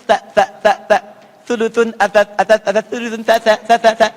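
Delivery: "sa" as an unvoiced th on the tongue tip; bitten at the tip. Shown as a demonstration. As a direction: model Arabic tha in "sa", "atas", "sulusun". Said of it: "digigit tapi di ujung sedikit".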